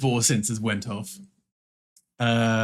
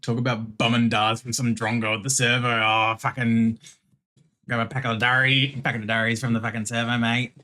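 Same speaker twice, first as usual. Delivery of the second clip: bogan Australian. Shown as a demonstration. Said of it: "Full bogan with ya".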